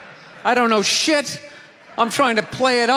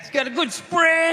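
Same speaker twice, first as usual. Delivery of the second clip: redneck clerk repeating; 3 semitones higher than usual. Retold or imitated. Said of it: "He kept saying that".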